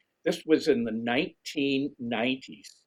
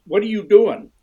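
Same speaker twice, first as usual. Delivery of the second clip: imitating a baffled pro, much higher and louder; incredulous pro; 9 semitones higher, 12 dB louder than usual. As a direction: hit the demand high and loud, half mocking. Final-day pro demanding answer.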